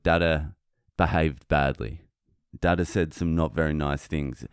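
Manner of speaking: put-on low, subdued admission to a child; retold parental confession. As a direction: own up simply, as a father to his son. Retold confession to young son.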